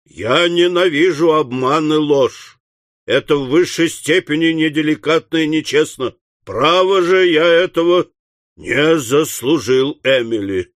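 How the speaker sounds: firm, wounded father's rebuke; mildly stern reproach; reproachful. Acted. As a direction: reprove her, slowing towards the end. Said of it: "укоризненно сказал Уордль".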